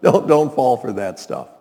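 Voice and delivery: lightly mocking, half-laughed brush-off; mocking dismissal. Spouse or employer mocking someone's new interest, lightly mocking. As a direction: wave it off with mild, softened mockery. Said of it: "mocks it and".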